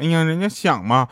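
a touch of coy pleading; playful wheedling. Retold or imitated. Mum begging dad to build a snowman, lightly coy. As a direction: imitate a wife lightly whining to get her way. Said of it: "老妈还在那儿撒娇呢".

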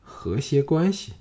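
mocking. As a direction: drawl the phrase back with scorn. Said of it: "朱姬嘲弄说".

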